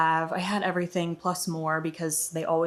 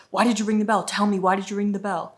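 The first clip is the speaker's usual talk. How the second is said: louder, mildly mock-angry demand; retold angry demand; 2 semitones higher, 5 dB louder than usual. Angry guard confronts visitor over the bell, retold anger. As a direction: imitate the guard demanding an answer. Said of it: "he was so angry".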